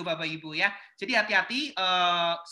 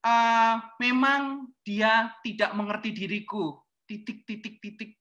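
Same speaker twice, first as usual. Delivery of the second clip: slow, hammed-up sulky lament; mock heartbroken status; slower than usual. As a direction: read it like a moping post. Status galau di Facebook. (keluhan galau yang dibuat-buat, pelan)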